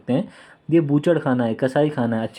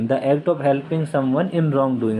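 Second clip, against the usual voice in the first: even slower, every word stretched apart; very slow dictation; much slower than usual. Shown as a demonstration. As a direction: repeat it slowly so students can write. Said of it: "teacher repeats definition slower". (और भी धीमे, शब्द-शब्द अलग करके)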